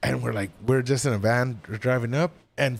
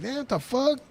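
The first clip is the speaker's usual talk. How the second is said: stunned disbelief; 10 semitones higher, 4 dB quieter than usual. Retold or imitated. Turned away again at races.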